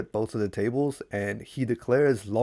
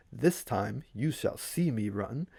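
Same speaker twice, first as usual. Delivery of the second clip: soft, slow eerie voice; quiet inner voice; 5 dB quieter than usual. Acted. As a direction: let it float in softly. Voice heard in his mind.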